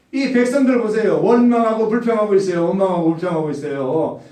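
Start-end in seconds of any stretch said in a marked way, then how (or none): 1.2-2.7 first take louder and higher; emphatic repeat. Real, not acted. Preacher to congregation, louder and higher. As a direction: drive home the complaint charge.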